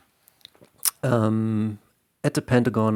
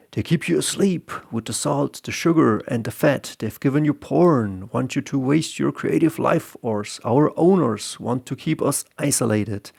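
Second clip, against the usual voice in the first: a raised, preacher-like warning; doom-laden preacher voice, pitched higher; street preacher; 4 semitones higher than usual. Retold or imitated. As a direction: preach it like a street-corner prophet. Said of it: "the preacher says there something".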